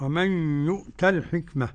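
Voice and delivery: الحكمة ending on an open a; fath ending. Shown as a demonstration. Sheikh shows the other readers' way, open a ending الحكمة. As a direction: recite ومن يؤت الحكمة with a plain open final vowel. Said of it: "هو المقوم بالفتح".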